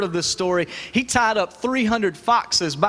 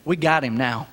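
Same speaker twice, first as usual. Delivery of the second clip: gloating crowd; 3 semitones lower than usual. Acted. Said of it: "what they're saying is".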